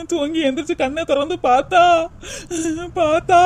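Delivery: sobbing between phrases; tearful, halting account; crying. Acted. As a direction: choke on tears and repeat the last word. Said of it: "ஏன் அழுதுகிட்டு இருக்கீங்க".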